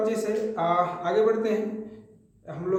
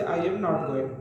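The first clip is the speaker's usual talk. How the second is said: slow, word by word example; slow, careful example sentence; slow teaching demo; much slower than usual. Shown as a demonstration. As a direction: spell it out slowly for the class. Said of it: "M के बाद not लगाओगे".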